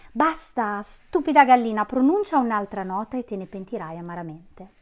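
loud, furious witch yelling at the singer; a witch screaming at a singing voice to stop, furious; furious shout. Acted. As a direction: snap her silent, beside herself with rage. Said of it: "urlò Cassandra fuori di sé".

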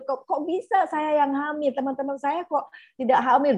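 high indignant complaint; lightly voiced teen grievance; angry girl. Psychologist imitating a client's angry protest, high-pitched. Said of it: "penuh dengan kemarahan".

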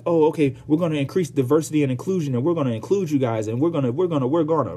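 fast, eager fake-sincere voice; Hollywood's hollow pledge, mock eager; mock promise. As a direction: gush empty promises quickly. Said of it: "Hollywood and everybody white was like".

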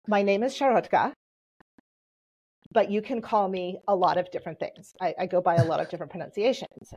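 lightly put-on Southern accent; mild Southern-accented self-quote. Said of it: "in my best Southern accent".

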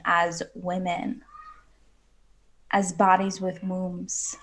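slow, soft and intimate, sinking to a whisper on softness; soft conviction. Real, not acted. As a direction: speak it slowly, as a tender truth. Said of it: "say this with conviction".

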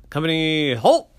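high, loud halt order; sergeant's command. Acted. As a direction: bark the halt.

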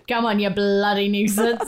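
hammed-up exasperation with a laugh; mock scolding. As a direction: playfully exaggerate the urging. Exaggerated replay of the urging.

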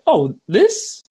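light high coach voice; casual coach. Retold or imitated. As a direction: toss it off breezily. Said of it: "he's like".

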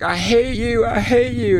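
high-pitched mock wail; mock outburst. First mate protesting to the captain who teased her, high mock wail.

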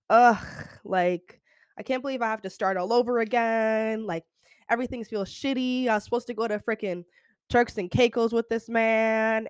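mock-mopey post-breakup moan, held on one note; mopey complaint. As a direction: whine through it like you're wallowing. Acts out someone moping after breakup.

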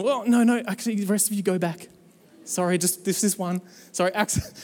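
light mock apology, dropping off quickly; half-voiced sheepish correction; flustered backtracking. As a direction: hurriedly take back an order. Acting apologetic backtracking to the dead.

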